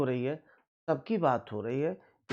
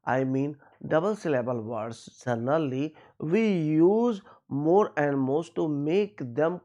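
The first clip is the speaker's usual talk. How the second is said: slow teaching read; much slower than usual. Acted. Explains in slow English.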